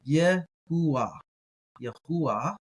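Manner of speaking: Yehuah as yeh-hoo-ah. Shown as a demonstration. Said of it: "I should do the pronunciation of that".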